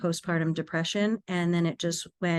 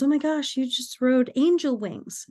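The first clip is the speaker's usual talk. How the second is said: higher-pitched imitated mom voice; amazed mother; 6 semitones higher than usual. Mother hearing what happened in the crash, amazed. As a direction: voice a mother's astonishment, lightly acted.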